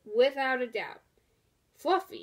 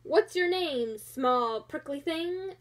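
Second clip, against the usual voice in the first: unkindly; 2 semitones higher than usual. Acted. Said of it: "asked the rhinoceros unkindly".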